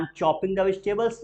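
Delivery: slow, clear, word by word; slow model answer. Shown as a demonstration. Teacher models the answer for students to repeat, slow. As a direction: drill it slowly.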